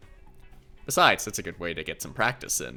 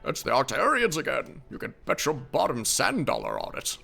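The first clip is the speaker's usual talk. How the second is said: put-on grumpy old man; 5 semitones higher than usual. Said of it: "my old man voice".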